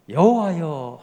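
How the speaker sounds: loud call of "여호와여" with a falling end. Shown as a demonstration. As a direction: cry out "여호와여" to God. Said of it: "하나님을 부르죠".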